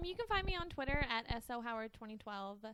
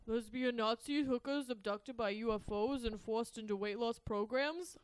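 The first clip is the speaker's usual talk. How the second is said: lightly put-on Rocky impression; terrible Rocky; 12 dB louder than usual. Podcast guest reads George Newman's film quote as Rocky, in a terrible impression. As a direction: attempt a bad Sylvester Stallone as Rocky. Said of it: "do her terrible impression of Rocky".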